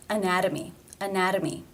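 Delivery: ANATOMY with the T tapped like a D; flap T. Shown as a demonstration. Teacher modelling T between vowels, flap in ANATOMY. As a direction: say ANATOMY with a quick D for the T. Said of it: "it is the flap T sound".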